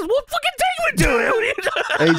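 very high-pitched exasperated outburst; mock exasperation. The speaker demanding AJ take him to the truck, mock exasperated. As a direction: squawk it in mock disbelief.

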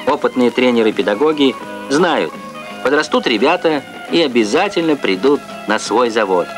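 formal Soviet TV narrator. Real, not acted. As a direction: archival broadcast recording. Archival Soviet TV report.

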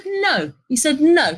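high, emphatic no; a mock snap of refusal from the client; sharp retold no. Client snaps denial, repeated.

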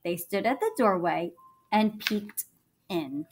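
lively storybook reading; reading to children. A narrator's reading. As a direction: read it like a bedtime story.

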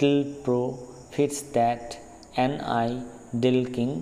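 each foot set apart with pauses, the second syllable hit; chopped scansion reading; scanning iambic feet. Shown as a demonstration. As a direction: beat out the iambs slowly. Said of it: "এই দেখো".

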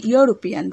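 "ইউরোপিয়ান" begun with a Y glide; initial Y sound. Shown as a demonstration. Teacher shows why European takes a, pronouncing the Y sound. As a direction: say "ইউরোপিয়ান" opening on "yu", as in you. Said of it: "ওয়াই এর উচ্চারণ আছে".

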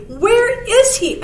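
high, drawn-out owl question. A narrator's reading. Owl asking where the stranger is, high and slow. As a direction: ask slowly like a storybook owl. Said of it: "asked the owl of many questions".

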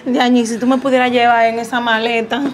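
a wife hammed up, begging her man not to forget her; clingy wife. Wife begging husband to call her from abroad, pleading.

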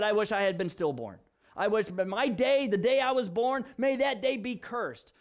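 acted bitter complaint, climbing in pitch; griping complaint. Job cursing the day of his birth, acted griping. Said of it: "He complained, he griped".

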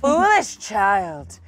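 evil villain. Acted. Villain line read aloud.

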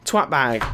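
twat bag said again with a clear t; corrected word. Real, not acted. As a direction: fix twat bag with a crisp start. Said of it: "I meant to say".

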